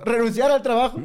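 high, excited blurt; excited retold decision. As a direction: act out a giddy announcement. Acted excited decision with partner.

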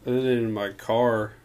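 speaking way back from mic; distant, hard to hear; far from mic. Real, not acted. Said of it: "Come closer to the mic".

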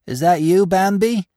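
high, loud call rising at the name; crying out. A narrator's reading. Gobo, fallen in snow, hails Bambi, crying out. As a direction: call out hopefully, pitched high. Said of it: "Again he heard the cry".

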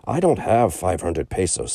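slow drawn-out friar's sigh of regret; a gentle holy man letting him down; kindly friar. Acted. Old friar tells the merchant he has no money, regretful.

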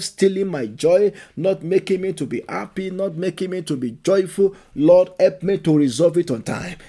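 loud, forceful prayer at full voice; preaching prayer. Acted. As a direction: cry out to the Lord, pleading hard. Leading prayer.

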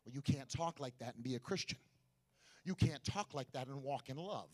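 quiet, gentle preaching. Shown as a demonstration. Preacher showing the congregation a gentle way to say it, soft and low. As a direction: bring it right down to a hush. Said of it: "you preach like this and people get quiet".

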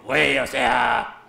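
slow, drawn-out mock fresa. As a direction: parody his fake posh fresa try. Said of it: "intentó hacer voz de fresa".

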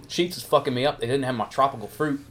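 mouth full. Real, not acted. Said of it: "Sorry, I'm eating my fruit mix".

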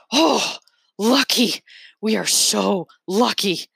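a hint of a glad lieutenant, savoring the luck; mild delighted cry; joyful exclaim. A narrator's reading.

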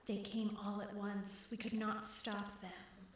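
slow, hissed water-woman voice; hissing. Acted. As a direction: hiss the words out slowly. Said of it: "she hissed".

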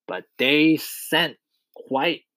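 slow, drawn-out punchline of a verse; triumphant verse ending. A narrator's reading. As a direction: stretch it out with pauses to land the rhyme. Centipede ends his triumphant verse.

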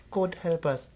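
soft unvoiced whisper of the line; hushed mock accent; whispered accent try. Shown as a demonstration. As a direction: breathe it out as a whisper. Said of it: "that was my little accent for something".

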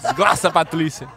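"Desgraça, Patrícia" with l for r, "Desglaça, Patlícia"; tongue-tie lisp. Pretend. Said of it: "Noite da língua presa".

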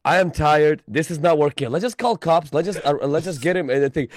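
fed up, begging to quit; hammed-up exhausted deliverer; exasperated quote. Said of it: "and I'm like".

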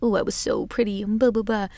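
lightly voiced bragging pretty girl; a hint of a smug pick-me girl. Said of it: "trying to sound like a pick-me girl".

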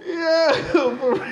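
high, slow words through a big laugh; laughing hard. Real, not acted. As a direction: laugh it out, barely speaking.

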